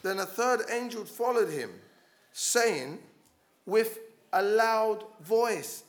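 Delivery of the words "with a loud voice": "loud voice" stretched out slowly and firmly; slow, weighty stress on "loud voice"; emphatic loud voice. Shown as a demonstration. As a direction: lean hard on "loud", word by word. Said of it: "Again, not a quiet voice".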